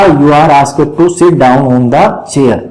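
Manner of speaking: slow, even word by word reading; slow dictation. Shown as a demonstration. Teacher dictating the converted sentence slowly to students. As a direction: give it slowly so they can write it. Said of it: "teacher dictating the answer".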